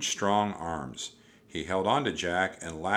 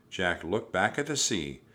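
ordinary delivery, nothing marked

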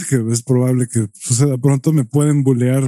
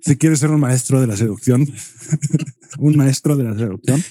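mock Spanish accent. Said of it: "imitar el acento español".

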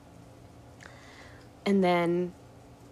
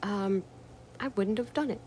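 mock troll voice; 3 semitones higher, 5 dB quieter than usual. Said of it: "And he says".

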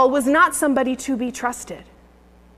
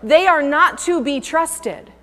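higher, louder string of excuses; rising protests; 4 semitones higher, 3 dB louder than usual. Retold or imitated. Preacher voicing believers' excuses to God, raised and pleading. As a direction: pile up the objections with building force. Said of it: "you said".

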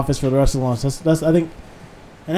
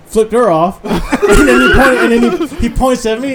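laughing retelling; 6 semitones higher, 7 dB louder, slower than usual. Real, not acted.

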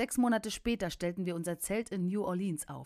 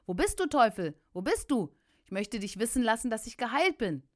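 louder, triumphant taunt; calling out; 4 semitones higher, 4 dB louder than usual. Retold or imitated. Healed preacher calling for the devil to gloat, loud. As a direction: challenge the vanished devil.

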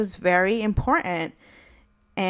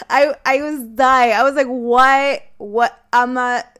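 laughing retelling; 3 semitones higher, 6 dB louder than usual. Real, not acted. Telling viewers how she reacted, laughing. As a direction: talk through leftover giggles.

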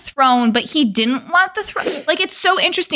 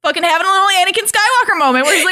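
laughing rant; 6 semitones higher than usual. Retold or imitated. Damon rant quote, high.

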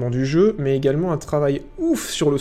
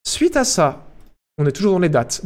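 TV host voice. Pretend. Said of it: "l'impression d'avoir une voix de présentateur télévisé".

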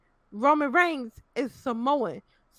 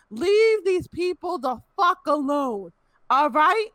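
exasperated scolding; 4 semitones higher, 3 dB louder, slower than usual. Real, not acted. Scolding fans.

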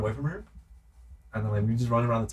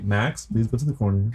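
calm parent voice; 2 semitones lower than usual. Retold or imitated. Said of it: "I'll say".

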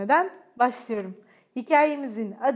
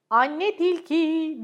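laughing; 4 semitones higher, 6 dB louder, much slower than usual. A narrator's reading. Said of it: "diyerek güldü baba tilki".

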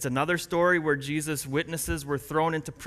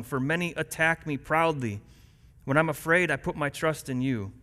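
scripture reading. Acted. Pastor reading Psalm 56 to the church, earnest reading. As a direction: read the psalm to the congregation. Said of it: "Listen as I read Psalm".

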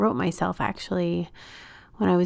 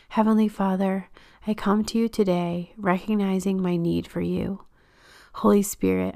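measured, earnest prayer with pauses between phrases; unhurried devotional reading; read-aloud prayer. Acted. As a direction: pray it gently and deliberately, phrase by phrase. Reads aloud her written prayer.

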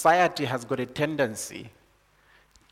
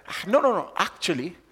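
correcting villager; 5 semitones higher, 3 dB louder than usual. Retold or imitated. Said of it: "They're like".

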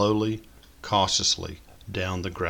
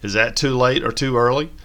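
put-on higher, louder excited teen girl; bubbly daughter with news; lightly voiced eager teenager; peppy teenage voice; 4 semitones higher, 6 dB louder than usual. A narrator's reading. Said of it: "a peppy teenage voice".

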